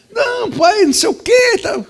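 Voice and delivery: put-on high, loud little boy's excuse; pleading child. Boy caught by father, high pleading denial. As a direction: squeak out a guilty denial.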